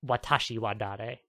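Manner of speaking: わたしはだれ？とゆっくり問いかけて; Japanese question. Shown as a demonstration. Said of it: "She says".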